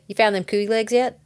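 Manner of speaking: level, unfussy doorstep question; deadpan. Acted. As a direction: ask it deadpan, like a stranger at the door. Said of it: "I was thinking deadpan".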